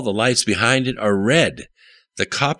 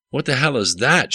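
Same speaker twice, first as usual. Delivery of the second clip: shout; 6 semitones higher than usual. A narrator's reading. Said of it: "shouted Jimmy".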